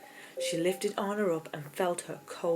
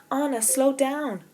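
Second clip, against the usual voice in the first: high, louder worried call; 8 semitones higher, 7 dB louder than usual. A narrator's reading. Elsa worriedly calling to her sliding sister. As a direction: warn her sister anxiously. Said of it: "starting to get worried".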